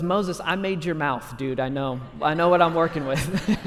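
lightly mocking, sarcastic retort. God answering Moses's excuses about public speaking, mildly sarcastic. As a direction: needle him with mild sarcasm, a laugh at the end. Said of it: "God responds to Moses with sarcasm".

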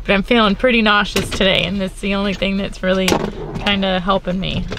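talking while chewing gum; chewing gum between words. Real, not acted. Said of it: "I'm chewing gum today".

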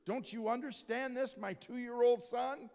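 exasperated dad, slowly spelling it out; rising, slow mock scolding; mildly irritated. Dad lecturing his two-year-old during church, mildly irritated. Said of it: "getting a little bit irritated".

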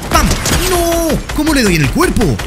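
furious high shout at the screen; outraged cry. Real, not acted. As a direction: yell at the missed shot. Missed shot, outraged cry.

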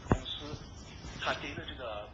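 thin telephone line sound; over a landline phone. Real, not acted. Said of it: "这是通过电话啊录的音".

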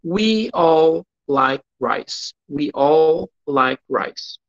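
very slow, clear English; slow classroom English; slow model sentence. Shown as a demonstration. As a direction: read it slowly for students to copy.

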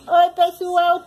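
put-on quick upbeat greeting for the baby; chirpy hello voiced for the baby. Shown as a demonstration.

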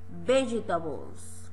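slow model word. Shown as a demonstration. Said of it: "Repeat again".

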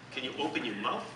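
ordinary talk, nothing marked

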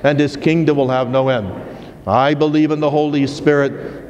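steady, measured liturgical recitation; reciting the creed. Acted. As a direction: recite it as a solemn profession of faith. Leads the creed at Mass.

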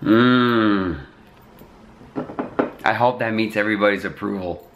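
talking around a pipe stem; words muffled by a pipe; pipe in mouth. Real, not acted. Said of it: "let me puff my pipe".

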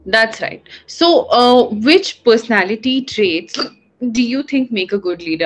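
hiccuping between words; hiccups. Real, not acted. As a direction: talk through the hiccups. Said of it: "I'm hiccuping".

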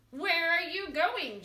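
loud, slow bear shout. A narrator's reading. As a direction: roar the question like a bear. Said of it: "shouted the bear".

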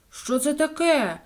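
high, slow astonished "what is this"; surprised question. A narrator's reading. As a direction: discover the mess with surprise. Ivan finds drawing on wallpaper.

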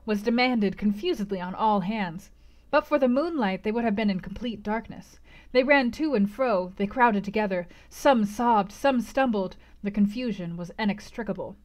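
measured literary read-aloud; story narration. A narrator's reading. Narrator recalls waking under the moon, measured storytelling. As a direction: tell it as a classic novel's narrator.

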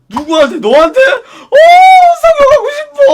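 loud, high gushing "I want surgery now"; mock eager excitement. Eagerly gushing, now wanting surgery after the suitor's compliment. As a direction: burst out as if hit by a great idea.

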